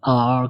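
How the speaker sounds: आर made far too heavy and rounded; overdone thickening. Shown as a demonstration. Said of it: "ज़्यादा नहीं".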